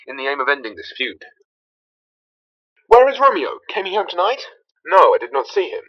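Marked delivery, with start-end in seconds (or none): 2.9-4.4 high calling voice, then asking. Acted. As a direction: call out anxiously for him. Calling out for Romeo.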